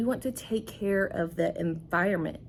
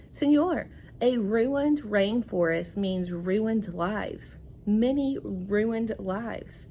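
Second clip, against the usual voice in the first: put-on reading to children. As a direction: linger on ruined lives as the frog. Teacher reads frog's plea.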